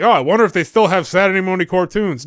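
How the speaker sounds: light mock inner-thought voice; lightly voiced thought. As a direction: quote your own brain a bit brighter. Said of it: "my brain was like".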